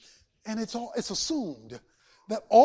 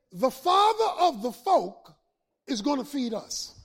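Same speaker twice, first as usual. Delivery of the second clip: a hint of a trusting little bird; bird's thought; 3 semitones higher, 4 dB louder than usual. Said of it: "in bird thought".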